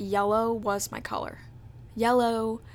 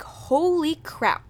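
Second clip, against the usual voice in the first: hyped exclaim; 6 semitones higher, 4 dB louder, much slower than usual. Retold or imitated. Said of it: "We were like".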